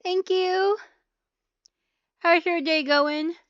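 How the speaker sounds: high, sweet mock-cheerful; overly nice customer-service tone; sugary fake-friendly voice. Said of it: "They said".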